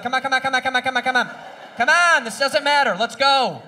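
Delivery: rapid impatient come on; impatient urging. Retold or imitated. Driver urging traffic at a yellow light, impatient. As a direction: hurry them along, fed up. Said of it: "be like".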